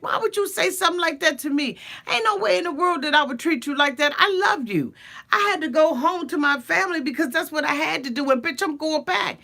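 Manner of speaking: imitating Submit brushing her off; mock defensive man. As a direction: rattle off excuses, hammed-up. Submit arguing with Jenny.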